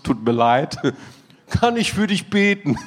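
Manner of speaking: lightly mocked pastoral sympathy, starting low; pastor mode. Pastor offers prayer to Klaus, self-mocking pastor mode. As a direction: play the concerned pastor with a laugh breaking in. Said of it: "ich war so gerade im Pastorenmodus".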